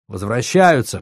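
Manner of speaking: plain reading voice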